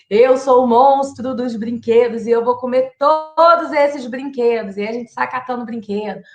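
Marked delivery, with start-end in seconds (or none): 0.1-4.8 playful toy monster. Pretend. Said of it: "por exemplo".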